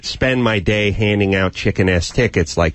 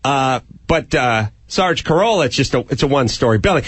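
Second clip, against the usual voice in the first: fast, fumbling objection; a timid partner pushes back quickly; hesitant partner. Pretend. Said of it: "And he'd be like".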